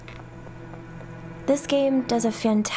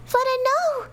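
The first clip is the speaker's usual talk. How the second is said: very high despairing call; anguished cry; 14 semitones higher than usual. Acted. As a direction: cry out as she's left alone. Girl abandoned.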